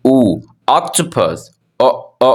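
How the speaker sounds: "octopus" drawn out very slowly; slow phonics demo. Shown as a demonstration. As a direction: stretch out "O, octopus" for the class. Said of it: "हम फिलहाल एक पढ़ लेते हैं". ("octopus" बहुत धीरे खींचकर)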